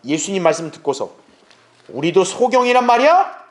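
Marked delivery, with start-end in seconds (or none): 1.9-3.5 bristling retort. Retold or imitated. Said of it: "이렇게 발끈한 거예요".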